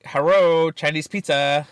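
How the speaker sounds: put-on Chinese-accented phone greeting; mock Chinese accent. Prank caller posing as a pizza place, mock Chinese accent. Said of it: "and I'd be like".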